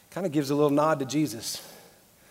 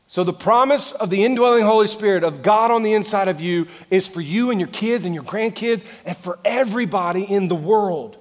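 full-force preaching; 6 semitones higher, 7 dB louder than usual. Acted. Preaches on after climax.

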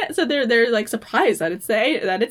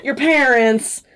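sighing; 3 semitones higher, 5 dB louder, slower than usual. Retold or imitated. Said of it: "And he sighs".

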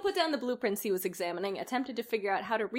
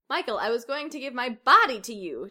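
a touch of a pleading plea, louder; 3 semitones higher, 6 dB louder than usual. Acted. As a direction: beg him, half-hearted. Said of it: "Janet pleaded".

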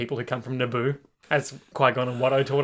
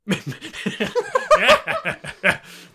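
high staccato cackle; cartoon crab cackle; 4 dB louder than usual. Co-host riffing on Mister Krabs, high cartoon cackle. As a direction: imitate a greedy cartoon laugh.

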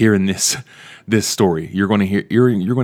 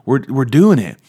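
excited; 5 semitones higher than usual. Retold or imitated. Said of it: "and it's like".

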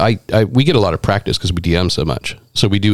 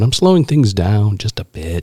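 slowed down; slower than usual. Shown as a demonstration. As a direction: own voice, only a bit slower. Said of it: "You can slow your talk down".

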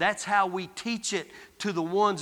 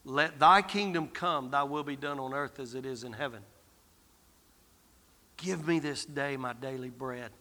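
soft prayer; 7 semitones lower, 6 dB quieter than usual. Shown as a demonstration. Preacher leading the congregation in prayer, hushed and intimate. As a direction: pray it quietly, inward. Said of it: "let this all sink in".

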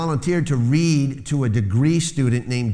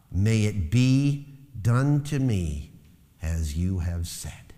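reverent prayer; 5 semitones lower, slower than usual. Acted. Quoted prayer, slow and soft.

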